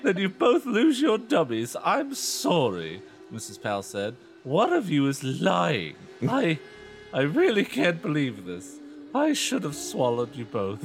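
high, loud, slow mock-mom; mother punishing both girls; hammed-up stern mom. Mother voiced in story.

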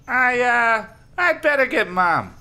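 high, hesitant character voice; stammering. Acted. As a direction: stammer it nervously. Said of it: "Lefty stammered".

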